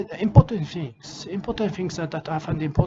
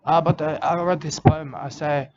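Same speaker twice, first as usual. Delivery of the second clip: hammed-up Australian accent with mate on every line; playing a rugged Australian conservationist, broad Australian accent; mock Australian bloke; 4 semitones lower than usual. Put-on Aussie character throughout.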